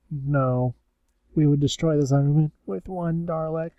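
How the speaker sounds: lightly voiced Dalek, pitch held up; imitated Dalek retort. Dalek answering the Cybermen's challenge, imitated Dalek. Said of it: "He's like".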